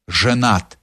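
a touch of indignation, said downward; indignant. A narrator's reading. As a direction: restate it as a reproach, flatly final. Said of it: "повторил с негодованием".

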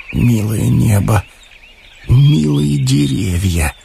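slow, tender words drawn out; tearful tender murmur. A narrator's reading. Romashov alone on the street after a love letter, tenderly moved. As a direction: linger lovingly on each word, moved. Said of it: "прошептал он с влажными глазами".

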